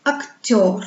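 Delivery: "acteur" with the last syllable stressed and drawn out; exaggerated final stress in "acteur". Shown as a demonstration. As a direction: lean on the end of "acteur", falling. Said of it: "L'accent tombe sur le son yo".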